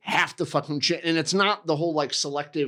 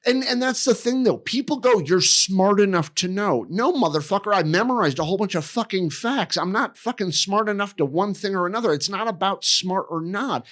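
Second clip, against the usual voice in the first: heated, higher-pitched venting; worked-up rant; 5 semitones higher than usual. Real, not acted. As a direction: argue it hotly, pitch pushed up. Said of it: "Sorry, I'm getting so".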